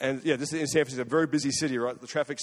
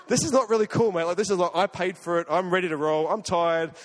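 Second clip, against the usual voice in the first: exasperated complaint; 3 semitones higher, 4 dB louder than usual. Retold or imitated. Frustrated customer at the counter.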